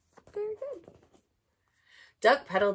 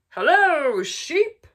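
cheerful duck greeting; 9 semitones higher, 13 dB louder, much slower than usual. Acted. Duck greets sheep in story.

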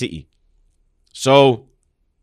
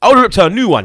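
laughing outburst; 9 semitones higher, 4 dB louder than usual. Real, not acted. Heated mock threat, laughing.

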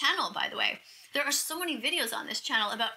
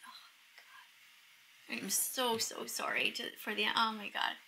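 soft, remorseful confession; real hushed regret; guilt-stricken; 4 dB quieter than usual. Real, not acted. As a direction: speak quietly, weighed down by guilt. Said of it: "Do you know how much guilt I have?".

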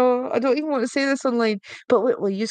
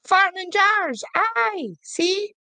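excited disbelief; 9 semitones higher, much slower than usual. Real, not acted. Disbelieving laugh at fart jars.

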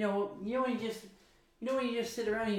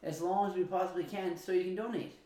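infomercial voice. Acted. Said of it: "Did it sound good like an infomercial?".

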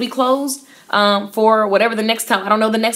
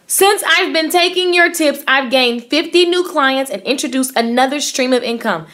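emphatic reread; 4 semitones higher than usual. Shown as a demonstration. Rereading Danny's comment to the audience, higher and emphatic. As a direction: lean into it so they really hear it.

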